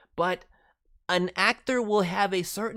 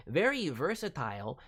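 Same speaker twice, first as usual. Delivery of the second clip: ordinary talk, nothing marked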